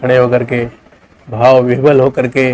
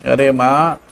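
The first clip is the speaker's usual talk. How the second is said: higher, sharp scolding of mother; angry son; 6 semitones higher than usual. Acted. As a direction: push her away in a huff. Son refusing.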